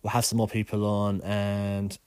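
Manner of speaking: stuffy, bunged-up voice; blocked nose. Real, not acted. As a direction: talk through a blocked nose. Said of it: "I'm a little bit bunged up today".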